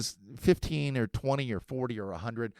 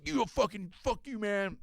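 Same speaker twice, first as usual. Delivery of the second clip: mock kid; 7 semitones higher than usual. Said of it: "he goes".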